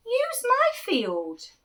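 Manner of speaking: high, slow offer; farmer offering. Acted. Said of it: "the farmer seed said".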